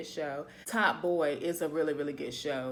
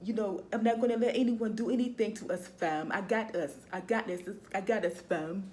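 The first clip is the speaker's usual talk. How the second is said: imitating London accent. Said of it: "because of their accent and stuff".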